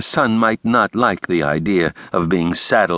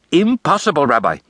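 higher, dramatic "Impossible"; emphatic refusal; 9 semitones higher than usual. A narrator's reading. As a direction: shut the idea down theatrically. Brooks flatly refuses.

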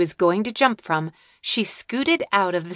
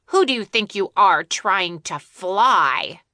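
angry; 3 dB louder than usual. Acted. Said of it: "concern turned to anger".

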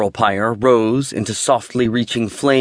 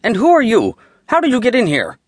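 snapped; 11 semitones higher, faster than usual. A narrator's reading. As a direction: bark at the intruders in outrage. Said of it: "and snapped".

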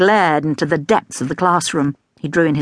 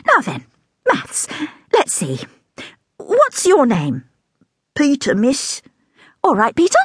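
much higher, delighted teacher voice; scatty teacher; 9 semitones higher than usual. A narrator's reading. Scatty teacher showing the class a rubber elephant, much higher. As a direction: hold it up like a treasure, much higher.

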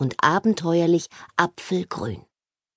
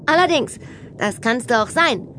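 put-on grinning mermaid girl; 7 semitones higher than usual. A narrator's reading. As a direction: agree smugly with a grin. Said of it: "Mea grinste". (grinsend, mit hoher Mädchenstimme)

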